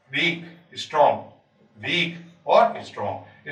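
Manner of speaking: वीक, स्ट्रॉन्ग in separated alternating beats; weak-strong rhythm. Shown as a demonstration. Teacher showing iambic order, in measured beats. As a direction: pair वीक with स्ट्रॉन्ग, pausing between pairs. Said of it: "शुरू में वीक आएगा".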